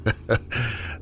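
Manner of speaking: unsettling laugh. Acted. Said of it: "He laughed in an unsettling manner".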